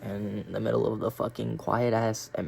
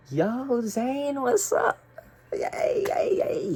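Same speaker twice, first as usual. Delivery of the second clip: much higher, loud whooping greeting; excited cheer; 14 semitones higher, 4 dB louder, much slower than usual. Retold or imitated. Welcoming a hallucinated friend in class, whooping cheer. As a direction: cheer like your best friend just walked in.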